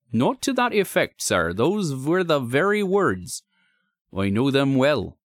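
slow, high rustic insistence; high-pitched working man, words drawn out; insistent signalman. Acted. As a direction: correct him firmly as a troubled country signalman. Signalman corrects visitor.

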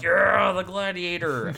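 crowd cheering. Retold or imitated. Podcaster mimicking the Sakaar audience's reaction, crowd cheering. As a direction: imitate an arena audience, stretching the words. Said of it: "They're all like".

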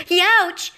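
high sharp youch; loud startled yelp; yelp of pain. A narrator's reading. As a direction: yelp as the tail pinches. Tail twisted in knots.

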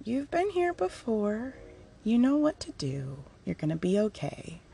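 soft, measured reassurance; gentle firm reminder. Retold or imitated. Dad reminding the speaker they'll be okay, gentle firm reminder. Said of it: "firm reminder".

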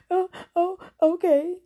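high, loud startled "oh, oh, okay"; mock surprised okay. Woman retelling her reaction to the evangelist, mock startled okay.

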